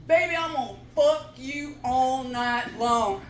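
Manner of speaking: whisper-soft pickup line; mock seductive man. Men talking women into bed, soft mock come-on. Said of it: "They say".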